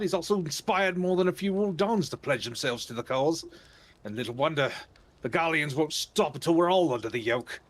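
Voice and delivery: a light hint of a Cockney-Australian accent. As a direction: read the soldier with a faint Cockney-Australian lilt. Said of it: "He was, he was part Cockney, part Australian".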